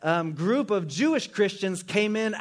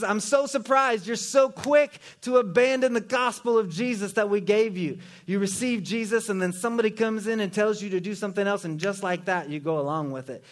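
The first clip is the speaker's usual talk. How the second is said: high-pitched indignant reproach; mildly upset Paul; 3 semitones higher than usual. Retold or imitated. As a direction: scold them a little, surprised and let down. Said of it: "Paul is writing with a bit of an attitude".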